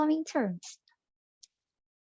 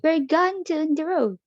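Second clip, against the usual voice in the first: "We're gone down the road" lifted high, gone stressed; a light Geordie lilt on "We're gone down the road"; Geordie example line; 6 semitones higher than usual. Shown as a demonstration. Teacher voices a Geordie phrase for learners. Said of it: "such as".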